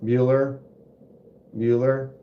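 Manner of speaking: monotone teacher impression. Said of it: "He was the teacher in Ferris Bueller's".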